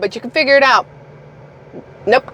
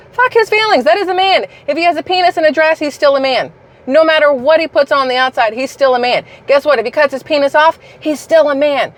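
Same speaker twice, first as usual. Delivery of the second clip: heated rant, pitched higher; worked up; 5 semitones higher than usual. Real, not acted. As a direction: get fired up and hammer it home. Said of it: "I get a little worked up sometimes".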